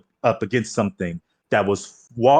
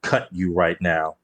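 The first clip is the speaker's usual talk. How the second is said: under-the-breath threat; 3 semitones lower than usual. Acted. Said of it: "It was like a under the breath threat".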